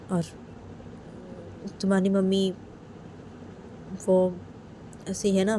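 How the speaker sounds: lightly voiced coaxing father; tender father. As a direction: coax the crying daughter gently. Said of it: "Sunaina के पापा सुनैना को बोलते कि".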